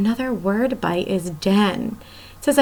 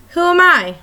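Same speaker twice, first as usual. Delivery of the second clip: riddle voice; 7 semitones higher, 3 dB louder than usual. Acted. Teacher repeats riddle question.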